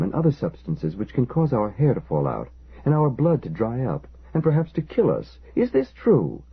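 pleading storekeeper. Acted. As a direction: build anxiously to a high question. Zakharin pleads about fallout.

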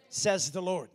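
loud emphatic declaration; loud preaching. Acted. Pastor preaching to the church, loud. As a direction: proclaim it with force.

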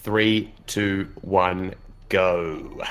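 loud countdown, fading down to normal. Real, not acted. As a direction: call out the countdown, starting loud. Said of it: "I'll do the countdown now".

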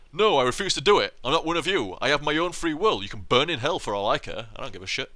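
loud, defiant refusal; a touch of hammed-up defiance; defiant hero. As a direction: spit it back at the villain.

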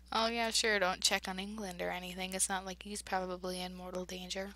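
dry sarcasm trailing down softly; sarcastic. Real, not acted. Sarcastic aside on the character's choice.

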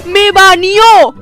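very slow, stretched-out wail of disbelief; drawn-out dismay. Real, not acted. Baby player lamenting the ban, very slow stretched wail. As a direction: drag every syllable out in dismay. Banned from the house in game.

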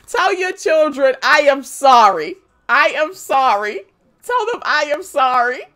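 loud hammed-up apology; mock plea. Telling dad to apologize to his kids, hammed-up. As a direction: beg sorry theatrically.

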